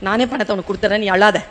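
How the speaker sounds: understated, low-pitched soothing; gentle consoling. Acted. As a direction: quietly comfort a tearful student, lightly acted. Acted sir consoling crying student.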